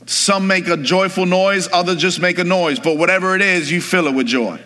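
preacher lifting his voice. Real, not acted. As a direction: rouse the congregation from the pulpit. Preaches to congregation with raised voice.

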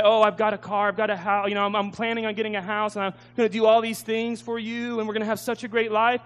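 rushing through excited plans for a sweetheart; lifted, keen voice of a hopeful suitor; eager promises. Acted. Suitor boasting eagerly in his letters.

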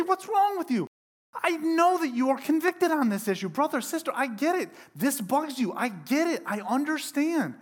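a scolding apostle calling out a nosy busybody; indignant Paul. Pretend. Paul confronting judgmental church members, indignant and loud. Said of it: "he might say something like this".

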